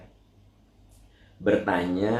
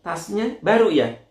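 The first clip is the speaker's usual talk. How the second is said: much higher, squealing busybody; nosy gossip; 14 semitones higher, 3 dB louder than usual. Retold or imitated. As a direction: gush then pry about the bag. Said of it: "nggak bisa gitu nahan untuk nanya". (suara kepo melengking tinggi)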